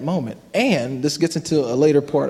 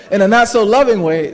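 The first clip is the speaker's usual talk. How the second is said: laughing; 3 semitones higher, 4 dB louder than usual. Real, not acted. Laughs while confessing.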